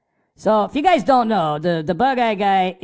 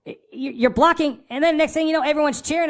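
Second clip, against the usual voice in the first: scolding a rookie fan about etiquette, higher pitched; lecturing the newbie; 4 semitones higher than usual. Retold or imitated. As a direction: set him straight, a bit worked up. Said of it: "I'm like".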